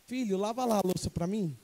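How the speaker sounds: put-on mild everyday request to a child; just telling, not scolding. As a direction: ask the child casually, without ordering. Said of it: "Você não tá repreendendo, você não tá dando uma ordem". (pedido tranquilo, sem bronca)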